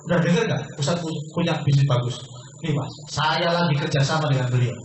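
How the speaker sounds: a touch of proud, eager news-sharing; eager boasting. Shown as a demonstration. Coach demonstrating how to tell a friend, eager. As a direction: drop the news like an exciting secret. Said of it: "Gini cara ngomong".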